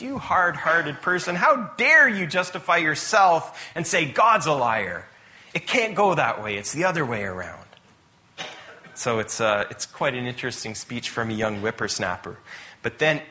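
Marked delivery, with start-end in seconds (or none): 0.0-7.6 mildly indignant rebuke, acted; indignant rant. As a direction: scold Job as his young challenger. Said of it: "goes on a big rant against Job".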